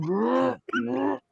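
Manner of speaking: high, soft snort of held-in laughter; suppressed giggle noises, acted out; stifled laughter. Shown as a demonstration. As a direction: imitate trying not to laugh. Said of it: "the more you're going".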